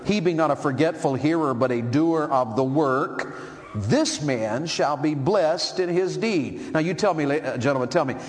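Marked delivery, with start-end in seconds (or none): 0.0-6.7 scripture reading. Acted. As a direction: read the verse with weight, slowing at the end. Preacher reading scripture aloud.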